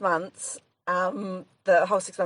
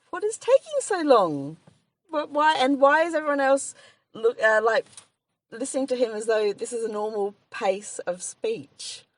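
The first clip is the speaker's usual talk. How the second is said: impatient; 6 semitones higher than usual. Retold or imitated. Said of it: "tapping my foot thinking".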